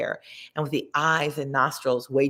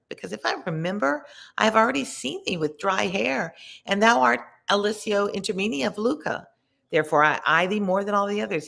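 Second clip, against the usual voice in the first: higher, quick reply to the sinner; lightly voiced Dante; 4 semitones higher than usual. Dante telling the sinner he knows him, lightly voiced. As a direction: answer briskly, recognising him. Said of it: "And I to him".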